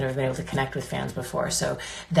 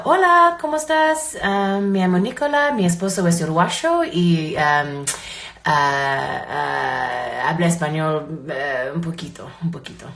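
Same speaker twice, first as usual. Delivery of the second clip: English accent in Spanish. Shown as a demonstration. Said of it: "try to speak Spanish".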